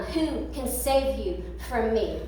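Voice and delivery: slow, low, menacing tyrant king; a furious king taunting his prisoners. Acted. King taunting the three men, slow and menacing.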